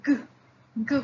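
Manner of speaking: g said alone, voiced; teacher showing the hard g; isolated sound. Shown as a demonstration. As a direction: voice g on its own. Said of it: "anyone pronounce it".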